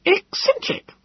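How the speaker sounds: high, sharp retort; snapped. A narrator's reading. Gödel sharply corrects Wallace, high and curt. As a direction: snap the word back. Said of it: "he snapped".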